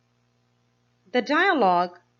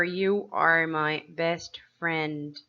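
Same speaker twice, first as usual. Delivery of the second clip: slow reading aloud; 3 semitones lower, much slower than usual. Shown as a demonstration. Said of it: "They are".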